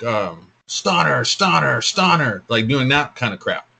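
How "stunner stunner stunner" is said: higher, punchy triple "stunner" call; repeating announcer call. Retold or imitated. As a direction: call it three times like a hyped commentator. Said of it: "the repeat trio scenario where it's like".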